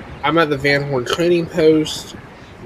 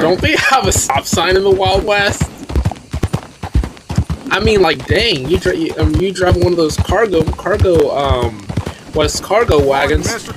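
exasperated rant; 5 semitones higher than usual. Real, not acted. Streamer ranting at a game cart driver, exasperated. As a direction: vent at the reckless driver.

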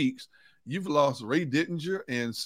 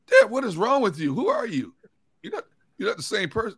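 daughters' disbelief; 6 semitones higher than usual. Retold or imitated. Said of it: "They said".

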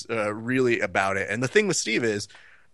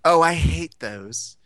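slow, higher mock Australian-British lady; Australian-British accent; 5 semitones higher than usual. Lady dismissing the fights, mock Australian-British accent. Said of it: "like, Australian, British, whatever the fuck her accent was".

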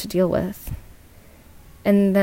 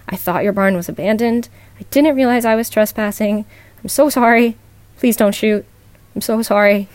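a touch of panic, getting louder as the pleading goes on; shaking panicked plea; 4 dB louder than usual. Retold or imitated. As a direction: beg him not to shoot, slightly rushed and rising. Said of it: "in a shaking, panicked voice".

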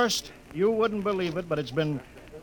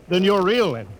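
louder, higher astonishment; louder, higher dawning wonder; astonished; 5 semitones higher, 6 dB louder than usual. Acted. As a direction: realise it all at once, aloud. Captain realising brother is real.

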